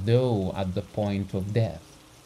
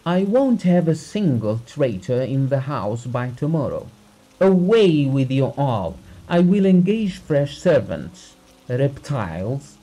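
loud, high raging threats; furious tirade; 5 semitones higher, 6 dB louder than usual. A narrator's reading. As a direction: rage at the whole household. Master raging at servants.

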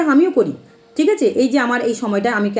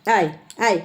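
low, mock beckoning call of a sorceress; 5 semitones lower than usual. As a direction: imitate her taunting come-here, pitched lower. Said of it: "উনি দেখিয়ে দিলেন এরকম করে". (বিদ্রূপ করে নিচু গলায় ডাকা)

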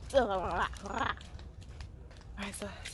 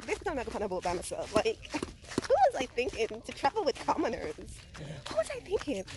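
mock snobby. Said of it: "I'm kidding, I'm kidding".

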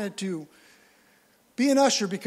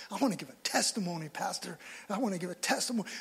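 eager testimony; 2 semitones lower, 7 dB quieter, faster than usual. Retold or imitated. Excited new worker testimony.

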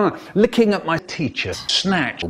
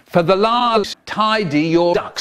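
final warning; 3 semitones higher, 3 dB louder than usual. Retold or imitated. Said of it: "final warning".

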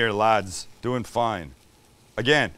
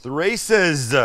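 "races" punched louder and higher, ending clearly in z; emphatic correction; 4 semitones higher, 5 dB louder than usual. Real, not acted. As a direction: correct the mishearing, hitting "races" hard. Correcting misheard "The racist?.

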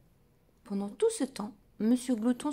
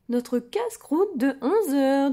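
loud; 4 semitones higher, 9 dB louder, slower than usual. A narrator's reading. Doctor presents the feast.

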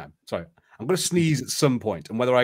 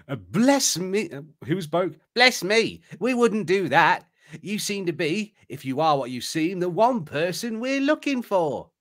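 put-on nervous boy; 7 semitones higher than usual. Narrator voices Boke character.

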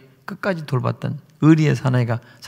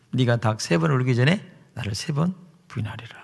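whisper; 4 semitones lower, 8 dB quieter than usual. Acted. Remembered words of Jesus.

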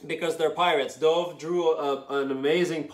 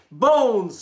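mock scream; 6 semitones higher, 3 dB louder than usual. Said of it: "screamed the cats".

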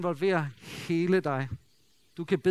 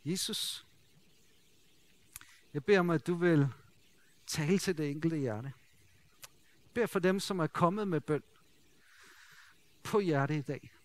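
closing prayer; 2 semitones lower than usual. Acted. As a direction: pray gently over the listeners.

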